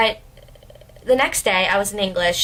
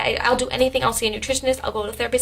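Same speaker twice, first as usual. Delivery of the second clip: retold tearful plea; 3 semitones higher, faster than usual. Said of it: "I was bawling my eyes out".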